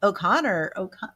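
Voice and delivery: half-hearted Irish accent attempt. Medium failing to copy what she hears, faltering Irish accent. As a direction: try the Irish accent and give up midway. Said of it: "I can't do the a-, accent".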